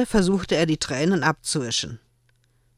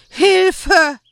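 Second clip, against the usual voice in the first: high, loud rattling gasp; death rattle; 9 dB louder than usual. A narrator's reading. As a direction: choke it out half-drowned. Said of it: "röchelte es".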